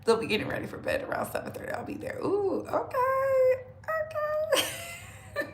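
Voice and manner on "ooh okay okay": very high, drawn-out squealed okay; excited squeal. Real, not acted. Streamer reacting to her live chat, high excited squeal. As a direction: squeal it high and long, breaking into laughter.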